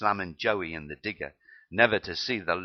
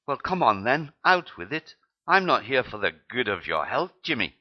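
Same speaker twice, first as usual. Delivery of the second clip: put-on impatient medic in a rubbish Scottish accent, pitched up; bad Scottish accent; 5 semitones higher, 5 dB louder than usual. Medic hurries the embarrassed para along, bad Scottish accent. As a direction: push him to spit it out, mock Scottish. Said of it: "My Scottish accent is rubbish".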